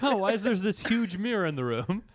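amused, put-on innocent musing; mock puzzlement. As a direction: play oblivious, barely holding in a laugh. Acts out the oblivious diner in mirror room.

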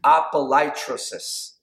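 careful Greek pronunciation; Greek word apolytrosis. Shown as a demonstration. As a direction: say apolytrosis carefully, a-po-ly-TRO-sis. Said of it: "I'm gonna try to say this word in the Greek".

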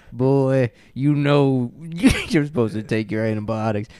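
lightly voiced backwoods father scolding his boy; mean hillbilly dad. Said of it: "a mean hillbilly dad".

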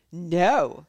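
loud Southern US denial; American Southern accent. Acted. Wife denying it to investigators, American Southern accent. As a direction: deny it loudly in a Southern accent. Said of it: "tired of doing the accent".

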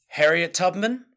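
portentous trailer delivery, broken by long pauses; quoting a trailer line. Retold or imitated. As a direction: deliver it slowly as a dramatic reveal. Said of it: "actually says the lines".

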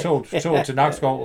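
slow imitated platform announcement; station announcer. Retelling a departure call for Nakskov, imitated announcer. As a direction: call the train out slowly.

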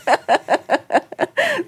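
bright rising giggle; high giggle. Real, not acted. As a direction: burst into a high laugh. Reacting to teasing.

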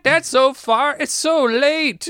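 high, drawn-out exclamation of dismay; mock dismay. Comic imitating reaction to a late drive, mock dismay. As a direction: protest in a high, stretched mock voice.

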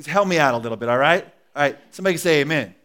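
livelier call for amen. Shown as a demonstration. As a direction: rouse them for a bigger amen. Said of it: "Something better".

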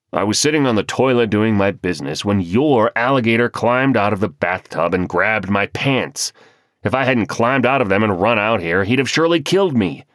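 indignant. Acted. Husband complains, chased by alligator.

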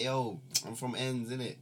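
half-hearted tough-guy pose from the ends; mock London street slang. Joking to his bandmates in a mild London street accent. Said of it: "Just be like".

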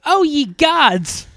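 high, loud, slow mock horror; shocked exclamation. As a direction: draw it out like hammed-up shock. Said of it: "when he's shocked".

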